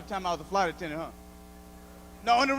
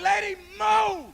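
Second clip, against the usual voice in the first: higher, louder, slow mock yell; yelling at old lady; 10 semitones higher, 6 dB louder, much slower than usual. Comedian yelling at an old lady blocking the exit. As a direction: shove her aside with your voice. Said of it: "I was like".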